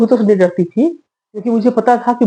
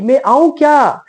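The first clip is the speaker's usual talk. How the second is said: slow, drawn-out call, a touch higher; 6 semitones higher, slower than usual. Retold or imitated. Seeker calling to hidden players, slow call. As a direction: stretch the words out into the dark to be heard. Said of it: "मैंने यहाँ से आवाज दिया".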